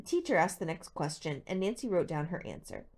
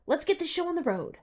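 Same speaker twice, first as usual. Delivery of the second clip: much higher and louder, relishing it; cackling glee; 11 semitones higher, 5 dB louder than usual. A narrator's reading. Teacher cackling at the class before a quiz, high and loud. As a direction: gloat over the quiz like a happy villain. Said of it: "Mister Warner cackled".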